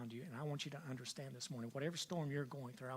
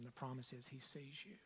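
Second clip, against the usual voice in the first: whispered promise; 9 dB quieter than usual. Real, not acted. Preacher's hushed promise.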